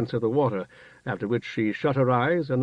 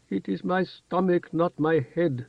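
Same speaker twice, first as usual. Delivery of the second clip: whimpering; 5 semitones higher than usual. A narrator's reading. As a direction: whimper it like a scared child. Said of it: "Sir Serach whimpered".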